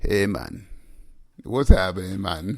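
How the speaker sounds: bad put-on accent drifting Jamaican, low and soft. Trying to show a real english accent, the speaker's attempt comes out sounding jamaican. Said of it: "You're not Jamaican".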